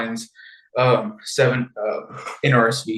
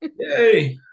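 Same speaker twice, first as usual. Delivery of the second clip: high-pitched echoing hooray; playful cheer; 11 semitones higher, 3 dB louder than usual. Pretend. Host echoing co-host's cheer at the villain's death, playful. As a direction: join in the mock celebration.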